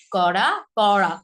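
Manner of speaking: "করা" first with a light r, then a pressed retroflex r; tap-then-flap contrast. Shown as a demonstration. Teacher drilling the two r sounds, contrasted. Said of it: "পার্থক্য কিন্তু অবশ্যই আছে".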